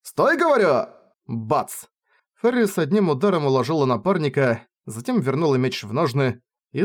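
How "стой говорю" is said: high commanding shout; sharp command. Acted. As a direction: cut him off with a shout. Ferris stops Rainer mid-sentence.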